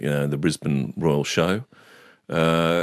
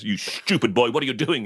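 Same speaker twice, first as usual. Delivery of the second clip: higher-pitched mock scolding; scolding teacher; 5 semitones higher than usual. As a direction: lightly act a teacher telling off a pupil. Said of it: "Missus Law goes".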